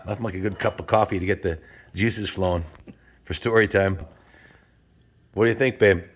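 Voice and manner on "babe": ordinary talk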